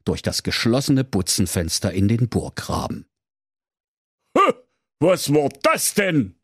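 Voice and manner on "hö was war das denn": puzzled. Acted. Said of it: "sprach der König Haier verwundert".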